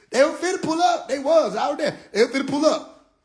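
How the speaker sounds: high laughing talk. Real, not acted. Retelling how the aliens almost came, laughing. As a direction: laugh through the words.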